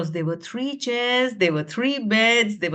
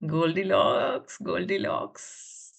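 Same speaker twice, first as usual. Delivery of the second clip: slow; 5 semitones lower, 4 dB quieter, slower than usual. Real, not acted. Slowly reading out answers.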